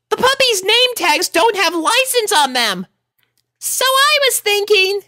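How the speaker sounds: put-on an eager little girl; little filly voice. A narrator's reading. Sweetie Belle pitching her idea to Rarity, childlike.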